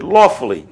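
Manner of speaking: "lawfully" repeated with firm stress; emphasized word. Shown as a demonstration. Lecturer singling out the word for students, "lawfully" stressed. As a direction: lean on the start of "lawfully". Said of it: "I want to emphasize the word".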